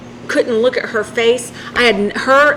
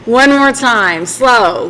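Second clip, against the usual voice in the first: slow, please; 5 dB louder, much slower than usual. Retold or imitated. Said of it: "say those same words really slow".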